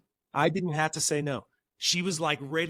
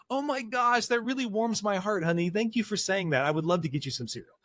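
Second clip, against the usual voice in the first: hammed-up touched dad, higher, speeding up at the end; gushing warm reply; 4 semitones higher than usual. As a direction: overdo the heartwarmed father. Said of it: "And then I would go".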